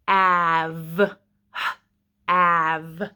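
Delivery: "Av" stretched slowly to hear its sounds; sounding out. Shown as a demonstration. Teacher sounding out a word for kids, stretched slowly. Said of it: "we are going to say it slowly".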